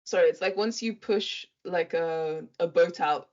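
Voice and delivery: talking around a mint; words a bit mushy from a mint; mint in mouth. Real, not acted. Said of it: "I have a mint in my mouth".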